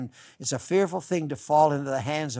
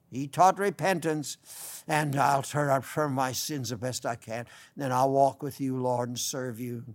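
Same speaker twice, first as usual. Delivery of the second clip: humble sinner's prayer. Shown as a demonstration. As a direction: pray it gently, like a repentant sinner. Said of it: "Just pray".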